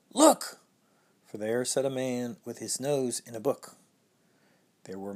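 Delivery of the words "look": high, loud excited shout; cried. Acted. Peter spotting the thief in the garden, loud high cry. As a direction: Peter yells it out, voice jumping up. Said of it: "Peter cried".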